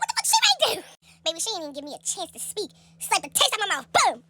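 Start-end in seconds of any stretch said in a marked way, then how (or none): 0.0-0.7 shocked. Retold or imitated. Shocked thought, mom arrives.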